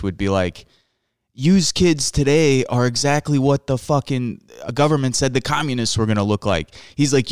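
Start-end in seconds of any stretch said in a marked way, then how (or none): 1.3-6.7 imitating dad in Chicago Italian broken English, pitched up; mock the dad's Chicago Italian English rant; loosely imitated Chicago Italian accent, griping about kids. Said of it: "very deep Chicago Italian broken English".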